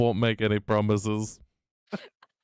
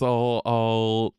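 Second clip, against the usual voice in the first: retorting; slower than usual. Acted. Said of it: "just retorts".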